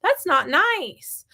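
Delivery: modeling his feelings. Shown as a demonstration. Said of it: "I say".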